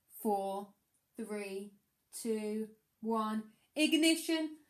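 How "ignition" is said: ignition. Acted. Rocket launch countdown climax.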